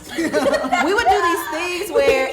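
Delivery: laughing through the words; giggling as she tells it; words breaking into laughter. Real, not acted. Laughing while telling the story.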